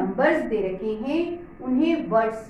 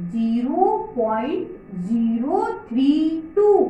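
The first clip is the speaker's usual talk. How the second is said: slow, every digit after पॉइंट read on its own. Shown as a demonstration. Teacher modelling how to read a decimal for children, slow and clear. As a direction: read ज़ीरो पॉइंट ज़ीरो थ्री टू slowly, digit by digit, never थर्टी टू. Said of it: "पीछे वाले single पढ़ना है".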